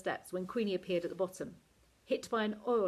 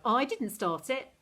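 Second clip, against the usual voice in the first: slow, louder protest; 4 semitones higher, 5 dB louder, slower than usual. A narrator's reading. Esther protests her innocence to Queenie, slow loud. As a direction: insist it wasn't her fault. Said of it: "Esther cried".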